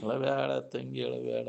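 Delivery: slow, drawn-out refrain; verse recitation. Retold or imitated. Recalling a verse someone used to say while bathing, slow recitation. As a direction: recite it like a remembered folk verse, vowels stretched. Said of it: "ಅಂಚಾರ್ ಜಳಕ ಮಾಡುವಾಗ ಅಂತಿದ್ರು ಇದನ್ ಪದ".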